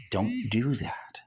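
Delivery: slow hushed whisper; whispered warning. Acted. Preacher whispers a warning to the congregation. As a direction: breathe the warning, no voice.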